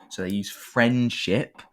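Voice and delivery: slow, drawn-out mocking emphasis on friendship; mock-earnest friendship line; sarcastic. Real, not acted. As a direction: lay the sarcasm on, slowly. Sarcastic about cheesy plot.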